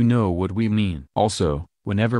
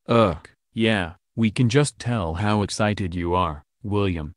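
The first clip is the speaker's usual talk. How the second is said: dry, sarcastic eye-roll delivery. Acted. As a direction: drip sarcasm on every word.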